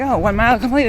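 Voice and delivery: imitating a running watch voice; mock automated voice; watch announcement voice. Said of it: "the thing will be like".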